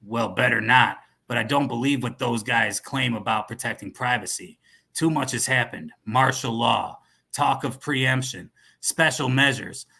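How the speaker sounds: put-on American cowboy accent; wary dealer in a cowboy's American accent; quintessential American. Dealer distrusting privacy promises, American cowboy accent. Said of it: "this guy sounds like a quintessential American".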